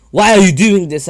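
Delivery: high, loud desperate cry; shouting in dismay at his friend; anguished shout. Retold or imitated. Naruto pleading with attacking Sasuke.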